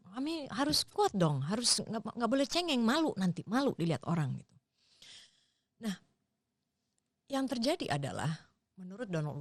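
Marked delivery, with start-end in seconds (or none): 0.1-4.5 high, scolding mother's voice; scolding parent. Retold or imitated. Mother scolding her crying child, in a high scolding voice.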